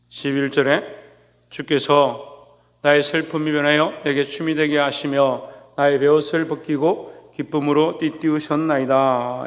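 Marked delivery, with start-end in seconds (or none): 1.5-9.4 slow, even-toned Bible recitation; solemn, measured psalm reading; scripture reading. Acted. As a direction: read the verse slowly, drawing out the endings. Reads scripture aloud.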